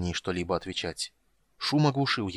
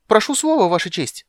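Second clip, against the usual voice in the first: much higher, loud shout for the floor; yelling kender; 11 semitones higher, 10 dB louder than usual. Acted. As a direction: leap up and yell it out. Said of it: "завопил Кендер".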